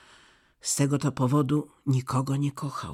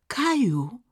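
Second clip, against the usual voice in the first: high, louder cry of alarm; frightened cry; 11 semitones higher, 5 dB louder than usual. A narrator's reading. Gerda frightened, crying out to Kai as he stomps the rose. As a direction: call out his name in fright. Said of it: "zawołała z przestrachem dziewczynka".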